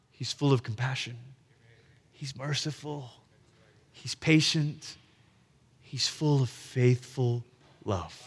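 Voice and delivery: low, soft recital with long pauses; hushed reverence. Acted. Israel hanging on to what it knows, hushed reverence. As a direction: let each attribute settle slowly, fading to the end. Israel clinging to known truths.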